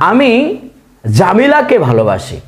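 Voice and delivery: জামিলাকে ভালোবাসি read very slowly, stressing জামিলাকে; drawn-out teacher demo; slow example. Shown as a demonstration. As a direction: spell out I love জামিলা slowly for the class. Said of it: "কে উচ্চারণ হচ্ছে".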